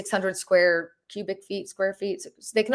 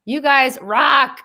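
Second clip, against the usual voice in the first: excited; 6 semitones higher, 7 dB louder, much slower than usual. Real, not acted. Reacting to viewer comments live.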